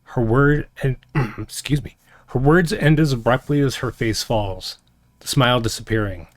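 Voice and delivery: game master's somber scene setting; story narration. A narrator's reading. Narration closing the recap.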